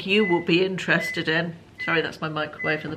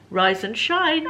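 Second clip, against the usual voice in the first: higher, bright wake-up call; talking to a pet; 5 semitones higher, 4 dB louder, slower than usual. Shown as a demonstration. Vlogger demonstrates waking the toy cat. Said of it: "He'll answer if you say".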